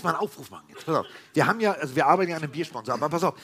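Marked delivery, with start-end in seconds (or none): 2.9-3.3 laughing through a cheeky sponsor plea; chuckling appeal, high and slow. Real, not acted.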